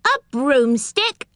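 slow, high, rising question; astonished. Acted. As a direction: draw it out in astonishment, rising at the end. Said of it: "more astonished than ever".

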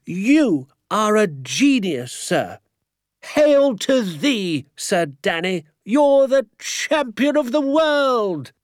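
very high, slow, theatrical rapture; jubilant crying out. A narrator's reading. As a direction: proclaim it in high, stretched-out ecstasy. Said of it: "he cried, pumping my hand up and down so fiercely".

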